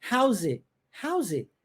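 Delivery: "How's it?" with the T left off; "How's it?" said twice, T swallowed. Shown as a demonstration. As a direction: clip the T in "How's it?". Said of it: "Ó, engoli, viu?".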